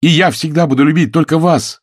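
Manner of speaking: ardent reply. Acted. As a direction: pour heat into every word. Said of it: "горячо ответил Сэм".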